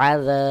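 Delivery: আযা with a pressed ع from mid throat; throaty ain. Shown as a demonstration. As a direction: squeeze the আ from the throat. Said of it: "গলার মধ্যখান থেকে একটু চাপ দিয়ে". (গলা থেকে চাপ দিয়ে আইন)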